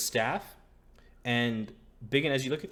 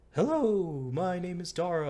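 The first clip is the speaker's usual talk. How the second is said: high, loud voice for a proud wood elf; proud elf mother; 9 semitones higher, 6 dB louder than usual. Acted. GM voicing Dara the wood elf mother to the table, high and loud. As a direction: lift the voice high and announce yourself. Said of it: "I had, like, a cool voice for her".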